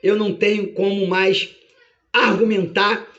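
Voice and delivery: measured, lightly acted verdict; a hint of a solemn judge; judge's ruling. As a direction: pronounce it with judicial gravity. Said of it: "meritíssimo Deus bate o seu martelo e diz".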